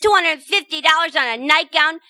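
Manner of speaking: mock angry yell at his wife; hammed-up yelling at Doris; retold yelling. Husband yelling at wife over the nightgown, mock angry. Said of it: "starts yelling".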